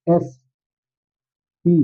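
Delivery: एसपी drawn out very slowly, letter by letter; slow demo reading. Shown as a demonstration. Teacher shows students how to read एसपी, very slowly. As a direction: spell out एसपी slowly for the class. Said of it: "एसपी कैसे पढ़िएंगे इसको".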